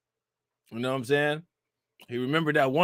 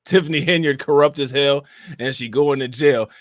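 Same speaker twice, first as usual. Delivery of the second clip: usual speaking voice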